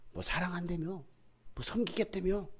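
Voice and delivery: mild mock grievance; resentful reproach. Believer blaming church members, mildly resentful reproach. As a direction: throw their promises back at them. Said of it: "막 원망하기 시작해요".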